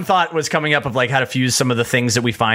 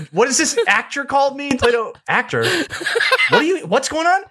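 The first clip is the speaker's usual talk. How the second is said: panicked brother; 13 semitones higher than usual. Retold or imitated. Brother panicking about the actor.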